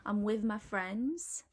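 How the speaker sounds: slow example, "with" said "wiv"; Cockney th-fronting. Shown as a demonstration. Teacher's example sentence, "with" as Cockney "wiv". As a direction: put a V at the end of "with", unhurried. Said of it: "with a V".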